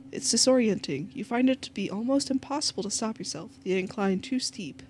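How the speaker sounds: measured game narrator; story narration. A narrator's reading.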